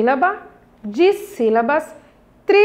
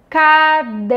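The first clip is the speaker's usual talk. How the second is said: syllable by syllable; 4 dB louder than usual. Shown as a demonstration. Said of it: "Quatro pedacinhos".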